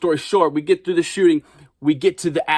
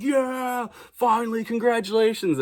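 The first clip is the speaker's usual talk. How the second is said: higher cheerful crew cheer; light celebratory whoop; mock celebrating; 9 semitones higher than usual. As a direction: toss it off like a happy wrap party. Crew celebrating after wrap.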